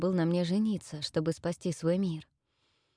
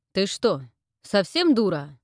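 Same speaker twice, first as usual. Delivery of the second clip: louder gruff retort; annoyed brute calling her stupid; rude insult; 6 dB louder than usual. Acted. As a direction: bark it at her rudely.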